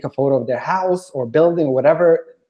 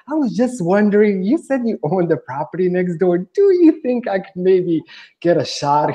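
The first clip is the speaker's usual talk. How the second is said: meek asking; 4 semitones higher than usual. Retold or imitated. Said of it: "kind of very meekly".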